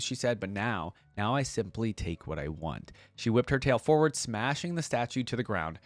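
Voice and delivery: measured storyteller's read; audiobook-style narration; story narration. A narrator's reading. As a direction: read the tale aloud with deliberate phrasing. Reading story aloud.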